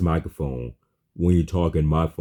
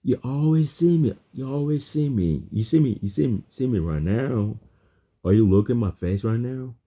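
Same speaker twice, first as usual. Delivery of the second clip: much higher-pitched, swooping voice; excited insistence; 7 semitones higher than usual. Real, not acted. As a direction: insist eagerly, pitch leaping up high. Excitedly insisting on being seen.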